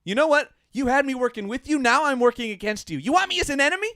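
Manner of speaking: building from sharp to a high yelled threat; hammed-up rivalry rant, rising to a yell; mock fury. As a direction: escalate into a high, loud declaration of war. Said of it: "And I'm like".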